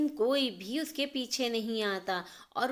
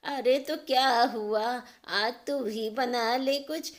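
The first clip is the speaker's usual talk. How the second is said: slow, louder, gently mocking mum; teasing mother; 4 dB louder than usual. Mother teasing Neha to cook for herself, slow and mocking. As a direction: dare her daughter to cook.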